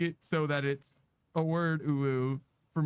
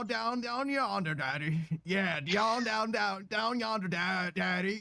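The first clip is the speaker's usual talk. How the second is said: slow Southern drawl chant; sing-song Southern daddy; 3 semitones higher, slower than usual. Pretend. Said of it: "That's Southern".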